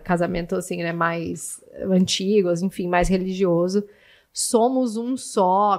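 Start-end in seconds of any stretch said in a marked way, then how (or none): 4.3-5.8 solemn wedding officiant. Retold or imitated. Quoting a religious wedding speech.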